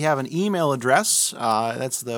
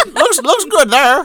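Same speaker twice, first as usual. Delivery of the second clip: put-on old woman voice, higher and louder; 12 semitones higher, 11 dB louder than usual. Doing a running bit after watching a baking show: Mary Berry impression. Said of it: "we're in the middle of this, like".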